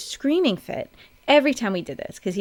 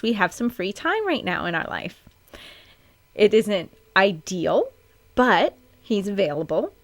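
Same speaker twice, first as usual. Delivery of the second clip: upbeat retelling; 3 semitones higher than usual. Shown as a demonstration. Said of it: "now I'm gonna tell you a very true story".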